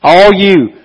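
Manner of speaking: lightly voiced Jesus pleading; urgent call to the tired; hint of pleading Jesus.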